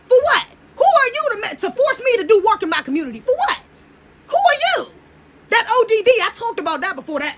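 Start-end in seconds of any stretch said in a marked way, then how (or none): 0.1-4.9 high-pitched acted defiance; mock indignation. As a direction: throw back challenges, pitched way up. Acting out women's indignant objections.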